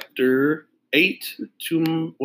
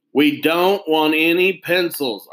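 a touch louder, slow, firm shout; shouting back; 4 semitones higher, 4 dB louder, slower than usual. Acted. Boy shouting back at the pushy salesman, mild slow shout. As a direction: push him away with a firm shout. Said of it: "Arlo shouted back".

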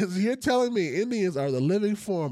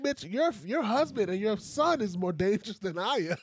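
mock retort; 6 semitones higher than usual. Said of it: "I'm like".

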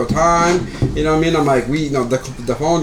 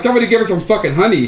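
retold joke line; 3 semitones higher, faster than usual. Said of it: "I'm like".

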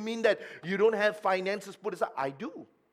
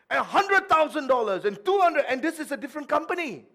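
laughing; 9 semitones higher, 8 dB louder, faster than usual. Real, not acted. Laughing over scam amount.

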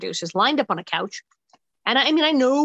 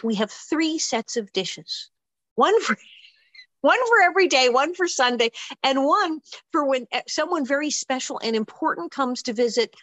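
put-on bragging girl; 3 semitones higher than usual. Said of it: "And she says".

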